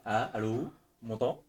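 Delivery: faint, far from the mic; barely audible. Real, not acted. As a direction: speak well away from the microphone. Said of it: "on t'entend pas très, très bien".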